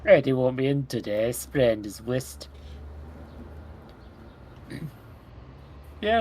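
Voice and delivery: put-on a loose Irish accent, half by accident; drifting Irish accent. Player voicing a game character in Irish. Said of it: "This is just Irish now".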